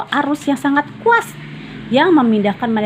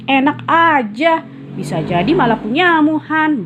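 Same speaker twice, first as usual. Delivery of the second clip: higher, indignant retort; protesting; 8 semitones higher, 3 dB louder than usual. Acted. Fadil denies his friend's charge, indignant. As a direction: push back hard, offended. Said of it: "bantah Fadil".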